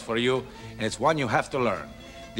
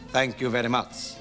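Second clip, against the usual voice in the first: proper reply; 3 semitones lower than usual. Pretend. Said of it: "very properly reply".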